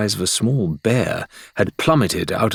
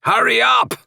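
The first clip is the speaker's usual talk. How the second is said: much higher, louder, agitated shout in a character voice; impatient Rathbone; 5 dB louder than usual. A narrator's reading. Rathbone hurrying Shan at the cage lock, agitated high shout. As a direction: snap at him to hurry, pacing and on edge. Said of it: "He was pacing, agitated".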